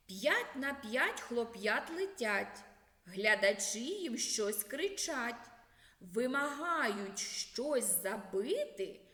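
rhythmic, lively riddle recital; riddle recited. Acted. Teacher reciting a riddle to first-graders, rhythmic and lively. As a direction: recite the rhyme to the class.

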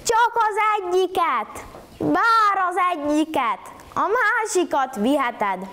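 high, frantic calling after him; shouting madly. A narrator's reading. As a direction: shout after the fleeing guest. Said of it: "kiabált veszettül".

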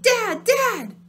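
high, loud cries for Dad; panicked call. Acted. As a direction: yell for Dad in fear. Calling out in panic.

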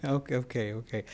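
real giggle breaking through; laughing helplessly, trying to recover; giggling. Real, not acted. Gigglers in the room set her off, real giggling. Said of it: "trying to see if they can get me to giggle".

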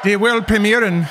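high, drawn-out mock announcer shout; mimicking the host. Viewer echoing the host's German line, mock shouting. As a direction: parody a big German show announcement.

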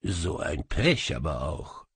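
a touch of fake compassion; mock sympathy. A narrator's reading. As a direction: feign pity for the spirit. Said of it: "sagte ich mitfühlend".

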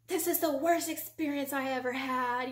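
re-enacted angry rant; angry complaint. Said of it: "I was so angry".

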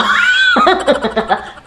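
high loud delighted laugh; burst of laughter. Real, not acted. Wife laughing at her own body, loud and high.

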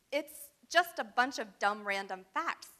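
insisting. Acted. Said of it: "Annabeth insisted".

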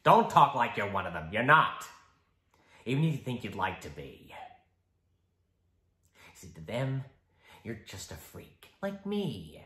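shifting, mocking, menacing Joker; icy polite interrogator. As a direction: lecture him with menace. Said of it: "the Joker".

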